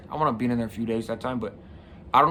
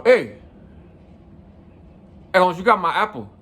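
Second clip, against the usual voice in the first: louder, firmer call-out; more serious; 5 semitones higher, 5 dB louder than usual. Retold or imitated. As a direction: sound tougher so he won't push you around. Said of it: "as a little more serious".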